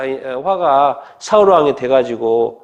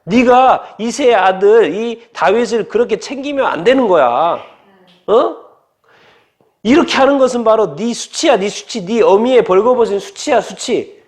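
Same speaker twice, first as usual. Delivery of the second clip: acted-out scolding, pitched up at the start; angry king; 4 semitones higher than usual. King Saul berating his son for protecting David, angry. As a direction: scold like an outraged father, mildly hammed-up. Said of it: "화를 엄청 내는 거예요".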